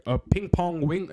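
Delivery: crude stereotyped Asian sing-song; mock Asian accent. Shown as a demonstration. Showing a bad imitation to friend, mock Asian accent. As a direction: put on a rough, joking Asian accent. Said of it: "an Asian accent and be like".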